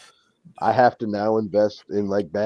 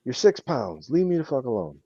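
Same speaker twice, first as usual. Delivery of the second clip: higher, half-joking scolding of a tiny dog; mock telling off the dog; 5 semitones higher than usual. Owner scolding his bossy little dog, mock annoyed. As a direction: talk down to a six-pound dog, hammed up.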